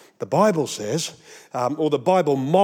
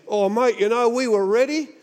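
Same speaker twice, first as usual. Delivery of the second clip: excuse-making friend; 6 semitones higher than usual. Retold or imitated. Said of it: "things I've heard my friends say".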